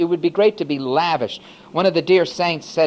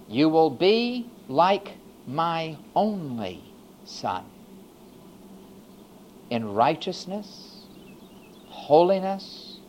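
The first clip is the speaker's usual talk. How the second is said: tender voice of God. Acted. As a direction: speak it gently, like a father adopting a child. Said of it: "And God in his mercy said".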